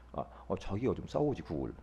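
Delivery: low, soft grumble to himself; imitated inner aside; muttered retort. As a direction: let it drop away like a private thought. Pastor's silent retort to grumblers.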